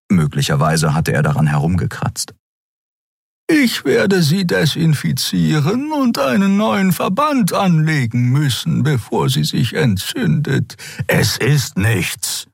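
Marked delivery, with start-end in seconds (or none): 3.5-10.8 very high, slow caring insistence; firmly tend the wound; high otherworldly healer voice; insistent Xea. Acted. 11.1-12.5 very slow, spat-out dismissal; slow snarled brush-off; hissing Kero. Acted. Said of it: "fauchte der Skria".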